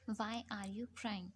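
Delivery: "Why are you crying?" spelled out very slowly, each word drawn apart; slow model sentence. Shown as a demonstration. Teacher models the question for learners, very slow. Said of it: "ज़रूर पूछ लीजिएगा".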